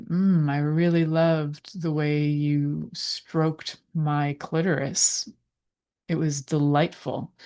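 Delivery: slow, savoring mock moan of appreciation; sounds of enjoyment. Shown as a demonstration. Showing how to give a partner sensual feedback, with lingering enjoyment. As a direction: open on a pleased "mm", then linger slowly. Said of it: "sounds of enjoyment too, like moaning and groaning".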